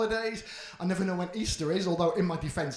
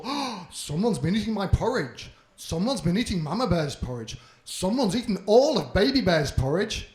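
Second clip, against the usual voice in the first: Papa Bear; 7 dB louder than usual. Acted. Papa Bear voiced in story.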